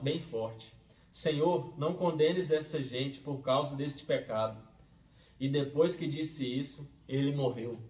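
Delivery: solemn narrator voice for scripture; scripture reading. A narrator's reading. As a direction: read the passage aloud to a congregation, firm and measured. Reads a Bible chapter aloud.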